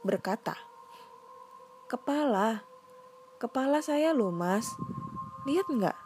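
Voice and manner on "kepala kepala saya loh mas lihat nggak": eerie ghost voice. Acted. Ghost asking for its head.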